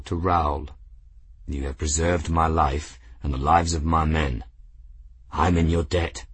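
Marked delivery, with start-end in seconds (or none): 1.4-6.2 grave captain. Acted. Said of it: "greeted the cat gravely".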